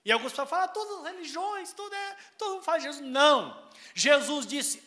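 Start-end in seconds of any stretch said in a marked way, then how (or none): 0.6-3.0 high, hurried mock objector; high-pitched quoted excuse; dismissive objector. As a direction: imitate someone brushing it off, pitched up. Voices objectors before refuting them.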